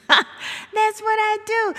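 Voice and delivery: host sells her catchphrase to listeners, punchy and slow; emphatic catchphrase. Shown as a demonstration. Repeats catchphrase with more punch.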